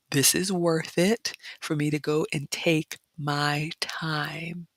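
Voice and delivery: hushed confiding whisper. Real, not acted. Vlogger confiding she'll come back, whispered. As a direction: tell them your secret plan in a whisper.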